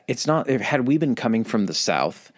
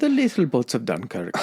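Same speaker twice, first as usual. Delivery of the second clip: put-on Irish accent; 2 semitones higher than usual. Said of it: "not sure why I did Irish on that".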